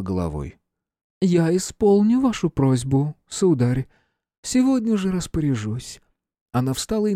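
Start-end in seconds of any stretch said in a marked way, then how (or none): 1.2-6.0 put-on gracious old empress. A narrator's reading. Empress voiced in story.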